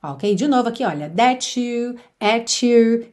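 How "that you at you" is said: "That you", "at you" joined with a ch; linked T and you. Shown as a demonstration. Teacher points out the junction to learners, linked ch sound. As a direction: say "That you" as "tha-chu", "at you" as "a-chu". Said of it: "essa junção aí de T com you".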